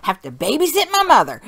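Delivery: hammed-up woe-is-me child; dramatic kid. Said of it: "She's like".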